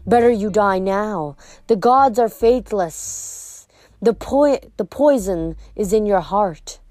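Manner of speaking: slow, scornful serpent woman; lightly voiced cold monster mother; snake lady voice. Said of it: "Echidna told me".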